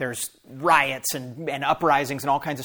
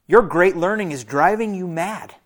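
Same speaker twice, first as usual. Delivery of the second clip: raised, higher accusing shout; loud voice; 4 semitones higher, 6 dB louder than usual. A narrator's reading. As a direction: call Paul mad loudly before the court. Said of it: "Festus said in a loud voice".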